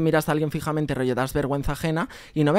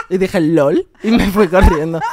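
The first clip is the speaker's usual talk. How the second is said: laughing; 3 semitones higher, 10 dB louder, slower than usual. Real, not acted. Laughing through embarrassing memory.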